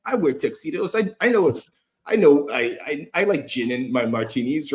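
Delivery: preen like a suave millionaire; smug rich guy. Retold or imitated. Podcast host imitates viewer picturing himself as car-ad playboy, hammed-up smug voice. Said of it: "And you're like".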